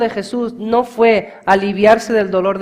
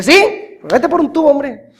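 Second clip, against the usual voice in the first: higher, scornful "vete por un tubo"; dismissive retort; 7 semitones higher, 6 dB louder than usual. Retold or imitated. Preacher imagining his own reply to the taunt, scornful. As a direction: brush off the mockers with scorn. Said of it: "yo he dicho".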